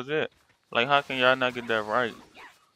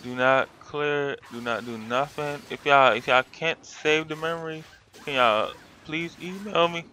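emphatic frustration. Retold or imitated. Retold complaint to phone support.

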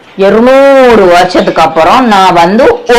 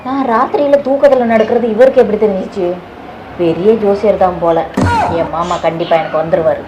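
inner thoughts; 7 dB quieter than usual. Acted. Woman's private thoughts about astrologer.

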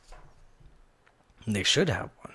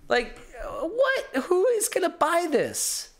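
laughing disbelief; 12 semitones higher, slower than usual. Real, not acted. Laughing at the gadget.

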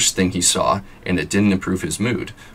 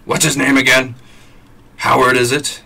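snooty wife; 6 semitones higher, 6 dB louder than usual. Acted. Wife voiced, feigned forgetting.

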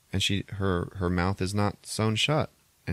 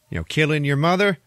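incredulous doctor; 8 semitones higher, 6 dB louder, faster than usual. Retold or imitated. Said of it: "he's like".

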